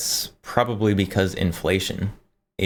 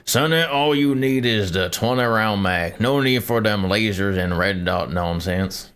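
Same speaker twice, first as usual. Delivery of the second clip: put-on old man boomer voice. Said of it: "old man boomer voice".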